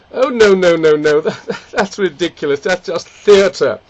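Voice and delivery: light posh English protest; a hint of a fussy Englishman. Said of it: "the Englishman gets up and says".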